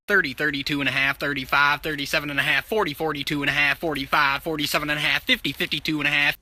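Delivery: fast counting in halves, lightly auctioneer; auctioneer practice. Shown as a demonstration. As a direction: practice bid count, quick. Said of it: "I have been practicing this".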